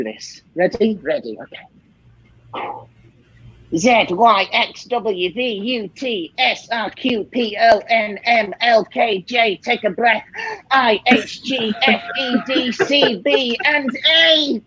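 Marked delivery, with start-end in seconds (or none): 3.8-14.6 rising higher as the letters run out; reciting under strain, climbing to a final cry; strained backwards alphabet. Pretend. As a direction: push through the alphabet backwards, straining at the end. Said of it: "recite the alphabet backwards".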